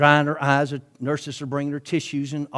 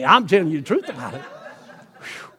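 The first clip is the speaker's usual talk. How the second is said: laughing. Real, not acted. Preacher laughs at own joke.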